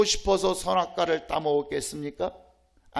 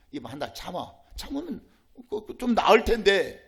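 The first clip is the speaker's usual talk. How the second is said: devil's coaxing voice. Acted. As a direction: coax the listener like the tempter. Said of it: "마귀는 늘 속삭이죠". (유혹하는 마귀의 속삭임)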